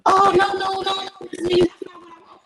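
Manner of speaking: high, hasty "oh no, no"; the girl suddenly retreating. Retold or imitated.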